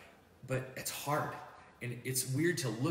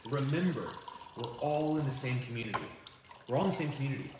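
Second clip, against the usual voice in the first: raised voice, pressing the point; emphatic urging; 4 semitones higher, 3 dB louder than usual. Retold or imitated. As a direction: insist firmly to the crowd.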